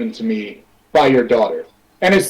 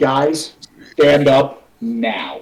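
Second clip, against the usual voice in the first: very slow, stern, no-nonsense fatherly voice. Ordering two seated party members at dinner to stand: stern dad voice. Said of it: "super sternly, now I'm in, like, dad mode".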